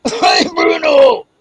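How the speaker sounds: long, high call across the room; drawn-out holler to Bruno. Real, not acted. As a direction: shout the name so they hear you. Calling out to someone away.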